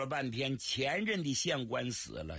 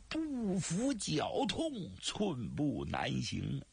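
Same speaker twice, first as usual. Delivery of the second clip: faked pain; much slower than usual. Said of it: "双手冷不丁一捂这肚子".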